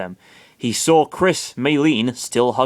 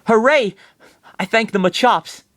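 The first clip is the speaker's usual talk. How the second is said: much higher and louder hooray; cheering; 10 semitones higher, 4 dB louder than usual. Acted. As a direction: cheer like a dazed fan. Maylene wakes relieved.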